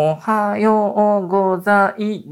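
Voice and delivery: slow, high, one syllable at a time; sounding out words. Shown as a demonstration. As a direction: drag out each syllable like a school recitation. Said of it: "その今の".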